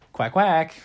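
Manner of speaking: loud spoken duck quacks; duck quacking. Acted. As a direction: quack out two words like a duck. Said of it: "And then the duck goes".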